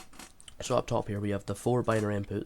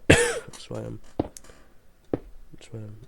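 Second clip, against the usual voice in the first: coughing; 5 dB louder, slower than usual. Real, not acted. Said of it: "I'm a bit sick right now".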